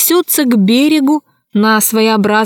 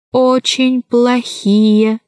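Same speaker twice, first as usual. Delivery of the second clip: halting dolphin voice; much slower than usual. Acted. Dolphin speaks slowly.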